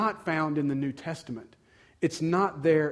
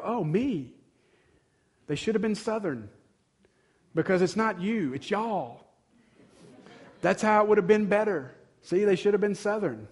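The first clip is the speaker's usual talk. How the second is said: higher, playful mocking voice; higher joking voice wishing for y'all; mock self-centered; 5 semitones higher than usual. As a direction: poke fun at the me-first reader. Joking voice of listener, Southern.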